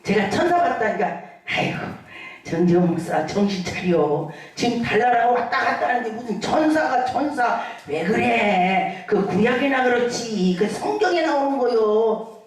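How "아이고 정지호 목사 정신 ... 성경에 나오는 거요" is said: scoffing skeptic. Retold or imitated. Pastor mimics a doubter mocking his angel story, lower and scoffing. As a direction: brush off the pastor like a know-it-all doubter. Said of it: "근데 어떤 분은 그래요".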